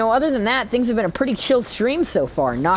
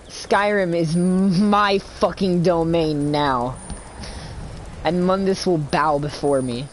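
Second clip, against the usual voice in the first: menacing villain; 2 semitones lower, slower than usual. Acted. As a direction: proclaim it darkly and slowly. Villain declaration.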